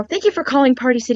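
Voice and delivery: quick scripted phone greeting; robot phone voice. Retold or imitated. Employee answering the store phone, robot voice. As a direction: rattle off a put-on automated greeting. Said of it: "I would put on that voice".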